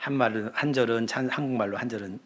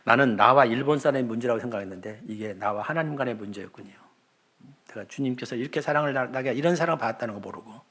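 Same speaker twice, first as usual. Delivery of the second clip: retold tearful prayer. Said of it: "밤새 울면서".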